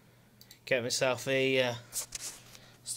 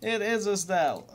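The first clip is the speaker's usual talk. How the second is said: higher and louder, delighted disbelief; excited recognition; 7 semitones higher, 7 dB louder than usual. Retold or imitated. Retelling hearing a singer's song on YouTube, excited shout. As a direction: retell the moment you recognise the singer, thrilled. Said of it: "and I was like".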